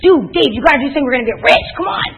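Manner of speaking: pushy rookie. Retold or imitated. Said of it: "You're like".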